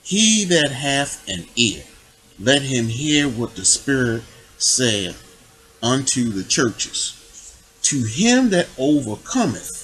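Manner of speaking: slow, measured Bible reading; scripture reading. Acted. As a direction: read the verse out deliberately, phrase by phrase. Reads scripture aloud.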